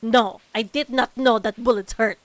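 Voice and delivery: loud, sarcastic mock outrage; loudly sarcastic reply to a game character; sarcastic arguing. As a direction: argue back at her, loud and sarcastic. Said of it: "I'm like".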